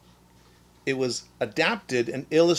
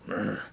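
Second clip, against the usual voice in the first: sleepy growl; 4 semitones lower, 7 dB quieter than usual. Acted. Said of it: "Bear opened one eye and grunted".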